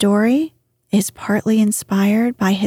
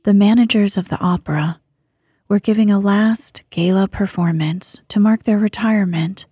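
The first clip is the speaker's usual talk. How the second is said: whispered bedtime story. A narrator's reading. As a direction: read it like lulling someone to sleep.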